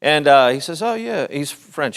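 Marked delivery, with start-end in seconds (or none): 0.8-1.2 put-on higher voice with a rough Indian accent; attempted Indian accent. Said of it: "Indian, Indian accent".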